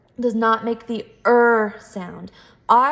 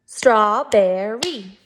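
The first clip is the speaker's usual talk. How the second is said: Strawberry slowly split into three beats; syllable by syllable; much slower than usual. Shown as a demonstration. Teacher counting syllables with first graders, slow and chunked. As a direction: break Strawberry into STRAW, BER, RY. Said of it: "Three syllables".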